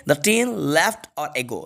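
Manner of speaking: very slow, each word apart; slow dictation. Shown as a demonstration. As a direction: read slowly, with "or" and no h. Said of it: "एच को छोड़ के read करिए और". (धीमे-धीमे, "or" बिना ह के)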